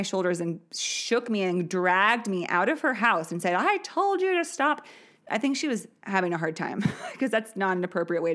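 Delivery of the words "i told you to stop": much higher, imitated angry shout; a mom snapping at kids, imitated shriek; retold furious yell. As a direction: play the neighbor mom losing it. Mom throws child out.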